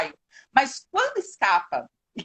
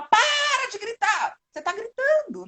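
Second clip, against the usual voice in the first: high-pitched, drawn-out parent's yell; mock yelling; 11 semitones higher, slower than usual. Parent telling a screaming child to stop, mock yelling. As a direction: yell it as an exasperated parent, in imitation. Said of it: "a criança grita, você fala".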